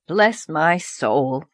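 slow, lightly voiced nervous old man; a flustered farmer exclaims; nervous exclamation. Farmer fears his cow broke in, slow nervous exclaim. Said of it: "exclaimed Mister Harrison nervously".

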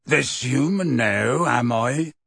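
slow, rustic Hagrid retort; testy. A narrator's reading. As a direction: throw it back, mildly irritated. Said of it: "said Hagrid testily".

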